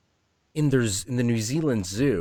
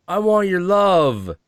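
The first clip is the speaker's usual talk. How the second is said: voicing the cat; 7 semitones higher, 5 dB louder, slower than usual. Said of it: "He's like".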